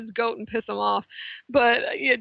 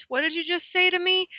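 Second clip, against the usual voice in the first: incredulous; 6 semitones higher than usual. Retold or imitated. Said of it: "I would have been like".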